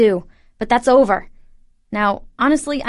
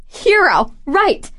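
sarcastic; 6 semitones higher, much slower than usual. Acted. Scoffing at hero claim.

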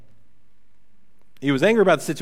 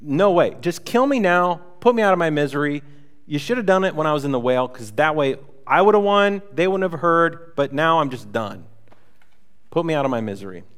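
mock ticked-off Jonah. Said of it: "He's like, I'm so ticked off".

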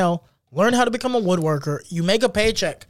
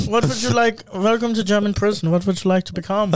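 mock German prison officer; comic German-accented English. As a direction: welcome them in a put-on German accent. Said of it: "your German accent".

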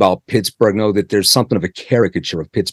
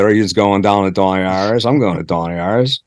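quick, mock Pittsburgh local talk; lightly put-on Pittsburgh accent; faster than usual. Shown as a demonstration. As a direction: toss it off like a Pittsburgh yinzer. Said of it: "Talk like this a little bit".

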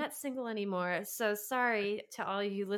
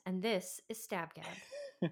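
TV anchor voice; 2 semitones lower, 4 dB quieter, slower than usual. Pretend. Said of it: "sound like twenty twenty".

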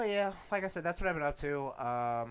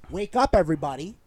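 sarcastic rallying cry; 3 semitones higher, 12 dB louder than usual. Pretend. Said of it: "I'm being sarcastic".

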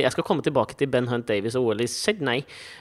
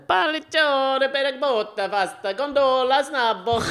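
high, slow fake Italian; mock Italian; 10 semitones higher, slower than usual. Asked for Italian, high, slow hammed-up Italian. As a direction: ham up a gondolier's Italian, slowly. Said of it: "Italiensk, har du det?".

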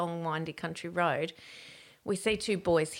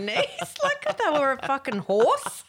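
laughing; 8 semitones higher, 5 dB louder than usual. Real, not acted. Laughing at own story.

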